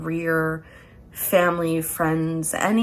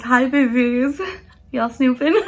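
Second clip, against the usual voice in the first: louder, higher, teasing; playful greeting; 5 semitones higher, 5 dB louder than usual. Real, not acted. Reader teasing viewers who snoop, louder and higher. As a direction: call out to them playfully. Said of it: "teasing feminine viewers".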